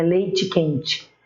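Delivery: "Leite quente" ending in chi sounds; everyday "Leite quente" with I endings; spoken final I. Shown as a demonstration. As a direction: say "Leite quente" as lei-tchi quen-tchi. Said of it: "a gente pronuncia o I".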